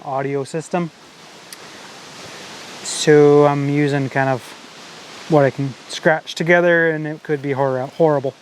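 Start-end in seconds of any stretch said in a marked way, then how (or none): 2.8-8.3 wind on mic. Real, not acted. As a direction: wind buffeting the microphone. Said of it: "excuse the wind noise".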